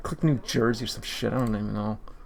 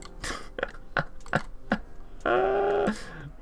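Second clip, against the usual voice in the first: high, breathless laugh; helpless laugh; 5 dB quieter than usual. Real, not acted. Gamer laughing at a bad run, helpless laugh. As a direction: laugh helplessly at your own failure. Laughs at how badly it goes.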